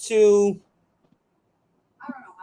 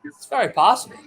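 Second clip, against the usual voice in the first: sarcastic; 3 semitones higher, faster than usual. Acted. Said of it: "He's being sarcastic".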